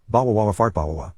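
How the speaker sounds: a light imitation of a sobbing kid choking on the words; mock blubbering. Kid caught out by his mom, imitated wailing through tears. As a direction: blubber it out like a bawling child, half-joking. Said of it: "burst into tears".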